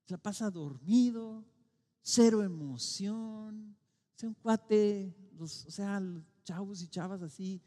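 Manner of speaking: un toque de papá exasperado, más agudo; padre quejándose. Retold or imitated. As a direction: imita a un padre harto de su hijo. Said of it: "muchos papás nos preguntamos". (un padre se queja del hijo adolescente, levemente exasperado)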